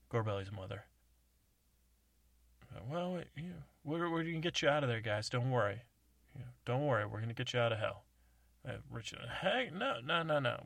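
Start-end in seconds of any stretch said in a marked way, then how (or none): 2.9-8.0 mother voice. Acted. Gorbelli's mother over CB. 9.4-10.6 protesting. Acted. Richie protesting.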